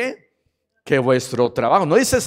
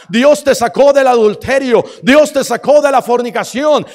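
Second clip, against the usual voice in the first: fervent convert testimony; 2 semitones higher, 4 dB louder than usual. Retold or imitated. Believer's old zeal, quoted.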